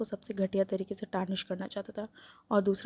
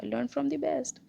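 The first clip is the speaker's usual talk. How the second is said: snapped retort; 5 semitones higher, much slower than usual. Acted. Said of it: "ग्लिंडन ने snap किया".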